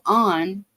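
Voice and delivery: ON drawn out slowly in a southern Ohio accent; own accented pronunciation. Shown as a demonstration. Showing viewers the word they mock, ON in southern Ohio accent. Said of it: "because of my accent".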